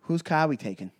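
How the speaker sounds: imitated Boston movie line; cool tough-guy line, Boston accent. Shown as a demonstration. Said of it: "I can't do a Boston accent. Can you?".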